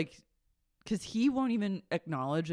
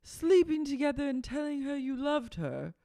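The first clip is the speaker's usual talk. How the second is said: incredulous Lisa; 9 semitones higher than usual. Retold or imitated. Lisa grilling Schwartz, high and incredulous. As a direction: stretch it out in disbelief.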